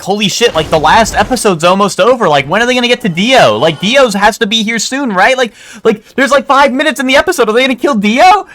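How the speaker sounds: high, rushed, frantic disbelief; reliving the panic as the episode runs out; frantic excitement. Retold or imitated. Recalling his younger self watching the finale, high and frantic.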